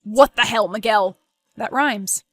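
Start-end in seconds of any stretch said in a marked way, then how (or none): 0.0-1.2 angry. Acted. Thomas confronts Miguel over video.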